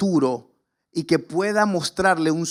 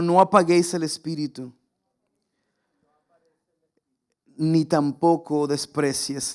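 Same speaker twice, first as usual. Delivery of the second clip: call and response; 3 semitones lower than usual. Shown as a demonstration. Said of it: "Diga conmigo".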